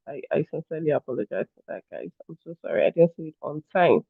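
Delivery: quietly mean the apology; soft earnest apology to viewers; sincere apology. Real, not acted.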